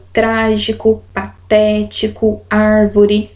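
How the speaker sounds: strong first syllable in "trágico" and "árvore", TÉ in "patético"; "trágico, patético, árvore" listed with each accented syllable stressed; antepenultimate stress. Shown as a demonstration. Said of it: "a pronúncia dessa sílaba também é tônica".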